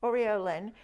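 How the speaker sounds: "Aureolin" said like Oreo plus Lin; "Aureolin" pronounced OR-ee-oh-lin; careful pronunciation. Shown as a demonstration. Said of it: "Oreo with Lin on the end".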